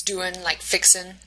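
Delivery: "doin'" and "fixin'" both ending in n; dropped G. Shown as a demonstration. Lecturer comparing two Southern examples, dropped G in "doin'" and "fixin'". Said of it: "doesn't have the G".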